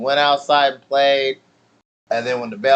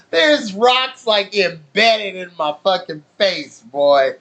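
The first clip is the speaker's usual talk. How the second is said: incredulous; 5 semitones higher, slower than usual. Real, not acted. Seeing rocks in his face.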